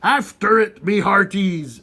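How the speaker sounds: loud high command; pirate command. A narrator's reading. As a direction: order the crew after the ball. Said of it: "Braidbeard commanded".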